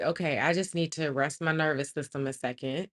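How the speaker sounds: low, soft talk to herself; calming herself. Retold or imitated. Trapped woman resting from screaming, low quiet self-talk.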